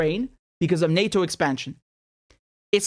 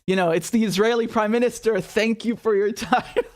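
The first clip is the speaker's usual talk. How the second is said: mock fawning. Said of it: "he's like".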